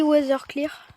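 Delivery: English accent inside French talk; mock English accent. Shown as a demonstration. Gamer telling viewers the command used, mock English accent. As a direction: switch to a put-on English accent. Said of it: "Avec mon superbe accent anglais".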